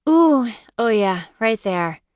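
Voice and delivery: drawn-out pleasured moan; moaning with pleasure. Acted. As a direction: sigh it out like a good massage. Moaning during massage.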